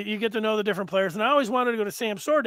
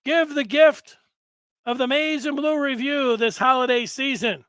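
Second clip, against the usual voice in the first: Santa voice; 3 semitones higher, 6 dB louder than usual. Pretend. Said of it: "And he's saying".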